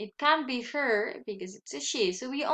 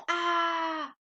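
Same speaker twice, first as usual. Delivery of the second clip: mild mock shout; 5 semitones higher than usual. Shown as a demonstration. Teacher showing pupils what shouting means, mild mock shout. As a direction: imitate a shout without really yelling. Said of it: "Is she shouting".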